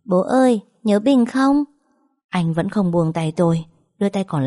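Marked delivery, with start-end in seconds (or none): 0.0-1.6 giọng trẻ con cao hơn, hớn hở; bé trai reo hỏi bố đầy phấn khích; bé con thích thú. A narrator's reading. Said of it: "thích thú hỏi". (giọng em bé hào hứng hỏi bố)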